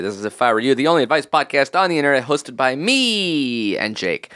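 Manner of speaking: quick intro, then a long stretched ME; podcast show intro. Acted. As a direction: rattle off the show title, then draw out the host credit.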